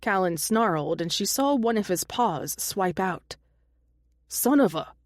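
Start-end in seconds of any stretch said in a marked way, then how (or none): 4.3-4.9 a hammed-up angry snarl. A narrator's reading. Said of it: "Roan snarled".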